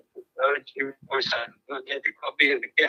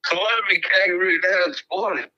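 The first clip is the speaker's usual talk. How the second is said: bright, hammed-up Australian accent, a little higher; put-on Australian accent; 4 semitones higher, 4 dB louder than usual. Prank caller greets the host in a mock Australian accent. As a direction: caller plays a cheery Australian bloke. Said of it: "enormously convincing accent".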